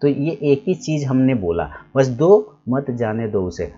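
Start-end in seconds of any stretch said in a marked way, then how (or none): 2.7-3.7 slow मत जाने दो उसे as one phrase; मत joined to जाने. Shown as a demonstration. Teacher repeats the other reading, slowly, मत leading the phrase. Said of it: "अलग-अलग अंदाज में बोले".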